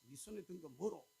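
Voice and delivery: Gyeongsang dialect. Retold or imitated. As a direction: press the question in Gyeongsang dialect. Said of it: "그 경상도 식으로 말씀하시네".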